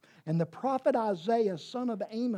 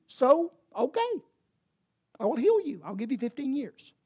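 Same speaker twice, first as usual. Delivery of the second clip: God's answer; 3 semitones higher than usual. Retold or imitated. Preacher voices God answering kindly.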